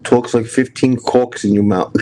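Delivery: mock Boston mumble, slowed down; imitating Doofy's accent. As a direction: say it the way Doofy talks, lightly. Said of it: "I even said it like him".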